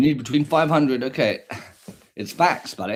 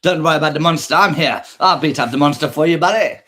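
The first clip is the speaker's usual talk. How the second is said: put-on louder protective father reassuring his child; doting dad voice; 6 dB louder, faster than usual. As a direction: play the brave dad promising to beat the monster. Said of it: "isn't that so sweet".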